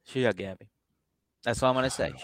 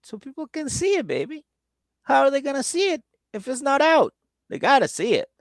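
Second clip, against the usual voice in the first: higher, breezy mock boyfriend; proud boyfriend; 13 semitones higher than usual. Boyfriend defending his meat display, higher and breezy. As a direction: explain it like it's obvious. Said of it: "He's like".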